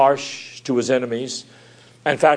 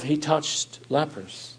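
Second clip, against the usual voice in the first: slow; 7 dB quieter, slower than usual. Acted. Repeated line, slowed for emphasis.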